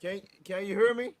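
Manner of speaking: distant, muffled mic sound; far away and low. Real, not acted. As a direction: voice from across the room. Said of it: "Why you sound so far away and low?".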